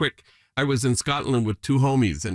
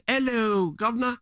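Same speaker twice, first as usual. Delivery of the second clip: higher, hammed-up imitation of the friends' greeting; mock hearty greeting; 10 semitones higher than usual. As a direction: call it out like the friends in the hotel lobby, half-joking. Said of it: "in the loudest voice imaginable".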